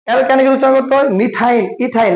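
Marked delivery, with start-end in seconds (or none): 1.2-2.1 "মিথাইন, ইথাইন" each ending in an "eye-n" sound; -আইন ending. Shown as a demonstration. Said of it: "লাস্টে আইন উচ্চারণ করতে হয়". ("মিথাইন, ইথাইন"-এর শেষে স্পষ্ট "আইন" উচ্চারণ)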